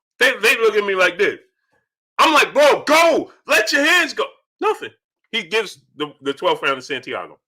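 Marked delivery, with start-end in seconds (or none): 2.5-4.3 frantic, high, urgent yelling. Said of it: "I'm screaming at the T V".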